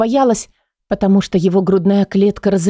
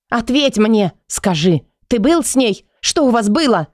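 holding back a shout; 4 semitones higher than usual. Acted. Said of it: "Стараюсь не кричать".

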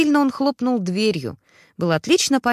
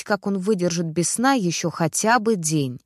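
ordinary delivery

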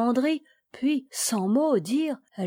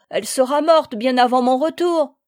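sobbing harder; 4 semitones higher, 7 dB louder than usual. A narrator's reading. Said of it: "en sanglotant plus fort".

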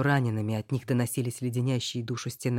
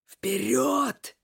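sharp order; 11 semitones higher than usual. Acted. Mage orders her forward.

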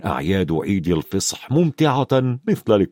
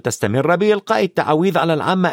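put-on higher-pitched boy explaining; lightly voiced knowing Ron; 6 semitones higher than usual. Ron tells Harry about British dragons, lightly voiced knowing boy. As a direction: explain matter-of-factly in a lightly raised boy's voice.

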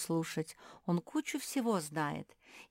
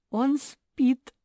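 giggling; 9 semitones higher, 11 dB louder than usual. A narrator's reading. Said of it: "захихикала Куки".

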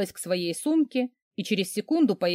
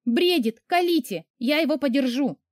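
spiteful order; 6 semitones higher than usual. A narrator's reading. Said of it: "вредно приказала я".

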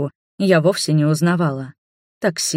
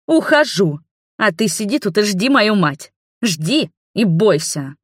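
angry threat; 4 semitones higher than usual. Acted. Princess threatening before slamming door, menacing. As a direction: threaten as you storm out.

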